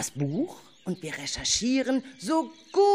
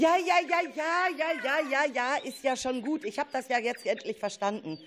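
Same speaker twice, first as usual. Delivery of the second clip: exasperated giving in; 4 semitones higher, faster than usual. Acted. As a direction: give in with a sigh of annoyance. Leader gives in to insistent kids. (genervtes Nachgeben)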